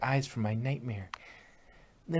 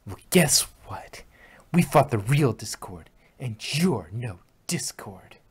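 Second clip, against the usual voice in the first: smirking taunt; 6 dB louder than usual. Acted. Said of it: "Twilight smirked".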